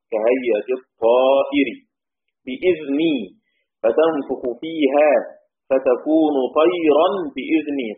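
measured Quranic reading of كهيئة الطائر; تلاوة بطيئة مرتلة; slow Quran recitation of variant. Shown as a demonstration. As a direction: recite slowly, drawing out each word. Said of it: "طيرا بدون ألف واللام، طائرا".

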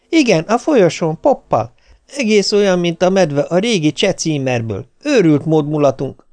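high, animated phone chatter; exhilarated wife. A narrator's reading. Wife tells husband about the dancing party, exhilarated.

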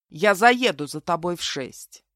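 slow, firm, even statement; unperturbed. A narrator's reading. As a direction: state it coolly, taking your time. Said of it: "невозмутимо добавил". (невозмутимо, размеренно)

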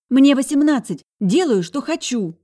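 put-on high, loud, stubborn young woman; high-pitched defiant girl yelling back. A narrator's reading. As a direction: shout it like a headstrong younger sister. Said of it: "не унималась моя вредная булочка".

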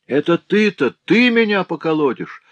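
villain shrieking with fury; furious yell. A narrator's reading. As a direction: howl it at him in a rage. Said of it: "в ярости завопил злодей".

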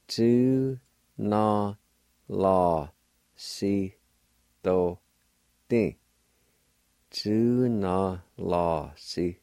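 Tu, na, la, si, do, di with a clear pause after each; syllable by syllable. Shown as a demonstration. Teacher sounding out syllables for students, slow and even. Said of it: "pronounced like this".

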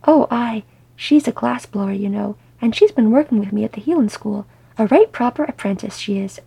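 lively, blithe chatter, rising in places. Acted. Owen proudly chatting about his glass-blower apprentice, blithely. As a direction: carry on breezily, oblivious. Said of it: "Owen carried on blithely".

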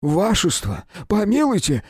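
high, pleading wail of a frightened doorman. A narrator's reading. Scared doorman begging the police to stop, high wail. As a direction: beg for mercy in a high whine. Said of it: "запричитал ошалевший швейцар".

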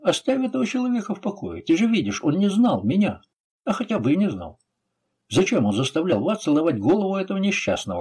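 high-pitched, earnest appeal; urging mercy. A narrator's reading. Cavalier asking his friend to spare a man, urging.

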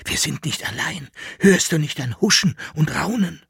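tense, high frightened whisper; breathless fear of something near; hushed suspense. Acted. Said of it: "flüsterte er".

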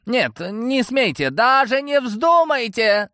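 high, slow, panicked yell; terrified nobleman crying out; frightened shout. Acted. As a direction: scream at the thugs. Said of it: "закричал".

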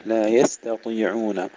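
slow "يستطيعون" with thin ت and full ط; light ta, heavy Ta. Shown as a demonstration. Teacher contrasts the two letters for learners, light then heavy. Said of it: "ترقيق التاء وتفخيم الطاء".

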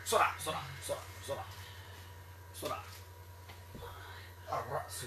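ordinary delivery

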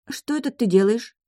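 lightly acted surprise; surprised question. A narrator's reading. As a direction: ask in mild astonishment. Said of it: "спросила девочка с удивлением".

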